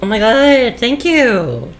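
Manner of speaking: high, loud relieved cry; excited. Real, not acted. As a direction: burst out in relief. Relieved outburst in game.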